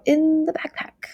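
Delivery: "in the backpack" lifted high, "in" drawn out; stress on location. Shown as a demonstration. Teacher showing emphasis on the location, stressed high on "in the backpack". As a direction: slowly raise "in the backpack" to foreground it. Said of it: "what if the emphasis was placed on the location".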